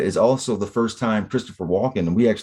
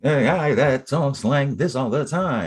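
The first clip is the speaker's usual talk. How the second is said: a hint of the B-52s singer's voice, higher and slow; B-52s singer impression; 6 semitones higher than usual. Mocking friend, imitating the singer's voice, higher and slow. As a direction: lightly mimic the B-52s singer. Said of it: "Do you think that guy talks like that".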